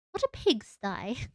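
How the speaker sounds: slow, put-on British-esque accent; testing a silly British accent; mock British. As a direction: draw it out in odd mock British. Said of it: "odd British-esque accent when I said that".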